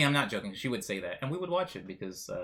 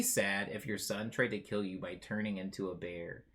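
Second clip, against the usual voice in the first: whisper; 7 semitones lower, 6 dB quieter than usual. Shown as a demonstration. Streamer rereading the ex's question as a whisper. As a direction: repeat it in an unvoiced whisper. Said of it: "repeats the question whispered".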